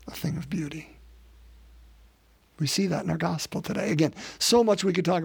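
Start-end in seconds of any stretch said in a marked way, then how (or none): 0.1-1.0 whispered. Acted. Preacher whispering the dance's beauty to the church, hushed. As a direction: drop to a breathy whisper.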